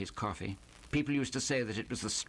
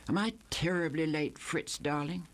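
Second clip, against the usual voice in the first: Sally voice; 5 semitones higher than usual. Acted.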